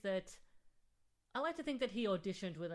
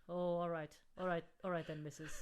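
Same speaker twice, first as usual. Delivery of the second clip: attempted Irish accent; 3 semitones lower than usual. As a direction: have a poor go at an Irish accent. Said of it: "I can't do an Irish accent".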